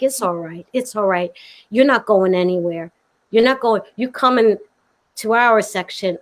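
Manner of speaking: calm someone who is upset; soothing. Retold or imitated. Ali's wife comforts the crying guest, soothing.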